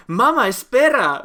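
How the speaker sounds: high pleading "Mama, espera"; loud, high, whiny plea to mum; imitating young man. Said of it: "And he goes, in Spanish, he says".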